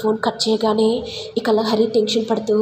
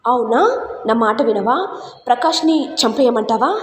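angry threat. Acted. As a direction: bite back with a threat. Threat shouted over phone.

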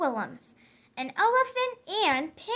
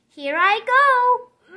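slow, louder windup; building up; 2 semitones higher, 6 dB louder, slower than usual. Acted. Piggy about to play her trumpet, slow and grand. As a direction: savour the moment before playing.

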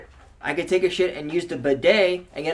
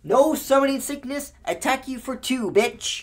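much higher, loud mocking taunt; taunting card; 10 semitones higher, 6 dB louder, much slower than usual. Mocking the Haste card as it taunts the opponent, high and cocky.

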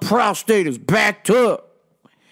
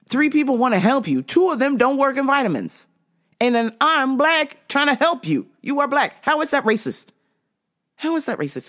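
higher-pitched incredulous venting; a touch of mock outrage, pitched up; exasperated inner rant; 6 semitones higher than usual. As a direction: vent silently at the rude customer. Inner rant at the rude customer.

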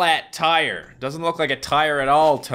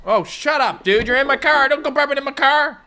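mock annoyed; 13 semitones higher, 5 dB louder than usual. Scolding burping hitchhiker.

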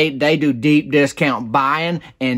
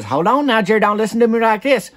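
Sybil explaining slowly; 8 semitones higher than usual. Retold or imitated. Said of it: "And she goes".

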